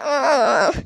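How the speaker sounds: awkward drawn-out "uh"; deliberately annoying drawn-out hesitation; cringy voice. Shown as a demonstration. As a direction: do a dumb, cringy filler noise. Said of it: "really awkward, dumb, cringy voice".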